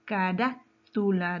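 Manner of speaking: slow "carátula", leaning on "rá"; stressed syllable shown. Shown as a demonstration. Teacher asking where the strongest force falls, stressed antepenultimate syllable. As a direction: split "carátula" after a stressed "rá". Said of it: "¿Dónde lleva la mayor fuerza de voz?".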